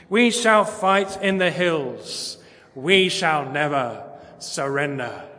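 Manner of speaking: slow, grand wartime oratory, lightly done; a hint of Churchill rallying the nation; Churchill speech. Preacher quoting Churchill to the congregation, in slow stirring oratory. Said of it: "I can't do the voice, but I'll say the words".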